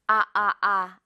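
아 held with the mouth wide open; wide ah vowel. Shown as a demonstration. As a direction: stretch the jaw open on 아. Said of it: "오가 아니라".

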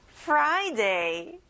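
"Friday" with a clearly made R after the F; careful R sound. Shown as a demonstration. Teacher modelling "Friday" for children, with a careful R. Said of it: "R 발음을 집중해서 해보세요".

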